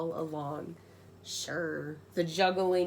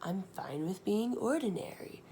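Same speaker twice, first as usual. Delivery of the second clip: put-on read for children; 4 dB quieter than usual. Shown as a demonstration. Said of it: "so the children can be like".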